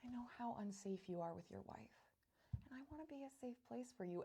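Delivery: very soft, hushed imitation; quiet, tender mock confiding; Janelle. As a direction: mimic someone gently offering reassurance. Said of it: "Janelle comes in and goes".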